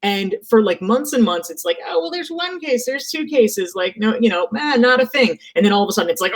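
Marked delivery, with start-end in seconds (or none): 1.9-5.4 dismissive. Retold or imitated. Mock dismissive imagined public.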